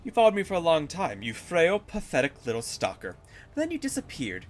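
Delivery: menacing boss taunt, lightly voiced; a hint of a sneering demon villain. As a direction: play the gloating villain. Reads villain boss lines in game.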